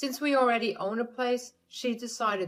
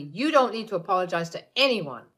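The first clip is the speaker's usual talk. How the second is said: louder, fast and firm; firm anger; 5 dB louder than usual. Acted. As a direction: shut her down hard. Ace cuts his mother off.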